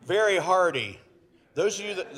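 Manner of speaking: teasing. Real, not acted.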